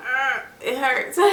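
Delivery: giggling through a replayed whimper; can't keep a straight face retelling it; laughing. Real, not acted. Mother laughing while imitating her own whimper of pain.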